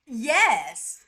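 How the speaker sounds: loud, high disbelief; outraged. Real, not acted. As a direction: blurt it out in shock. Outraged at the Reddit post.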